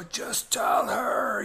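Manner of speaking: a whispered prompt from a friend at his side; whispered urging. Retold or imitated. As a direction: nudge him under your breath. Priest urges him quietly.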